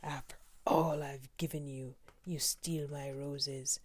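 a touch of a growling Beast, slowing on the roses; lightly growled, the Beast holding back its rage. Acted. The Beast growls at the rose thief, mildly menacing. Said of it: "he growled".

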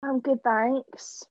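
lightly voiced British reality contestant; a hint of British accent, chatty; mock British accent. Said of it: "do their intro in British accents".

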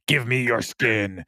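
slow, lightly voiced creepy machine; a slow, menacing gadget, only lightly played; creepy tablet voice. The tablet telling Jessica it wants her skin, slow creepy voice.

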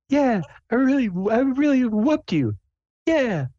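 very high, squeaky boast; Sable. Acted. Player's character boasting at the anvil, high-pitched gloating. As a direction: gloat slowly in a tiny high voice.

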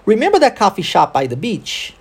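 connected English rhythm, "remember" peaking, "beach" lifted at the end; model rhythm and intonation. Shown as a demonstration. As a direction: question with stress on "remember", rising on "beach". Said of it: "Ok, vamos tentar?".

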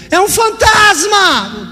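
high, slow frightened shout; a disciple seeing Jesus on the water, yelling in fright; terrified cry. Retold or imitated. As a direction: cry out as if you've seen a ghost.

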